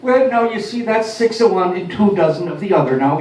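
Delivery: Irish mother's brogue with the mixed-up saying. Retold or imitated. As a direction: say "two dozen" in a lilting Irish mother's brogue. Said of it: "with an Irish brogue".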